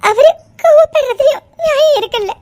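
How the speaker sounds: crying half-laugh; tearful. Acted. Wife talking to herself, crying. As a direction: weep to herself.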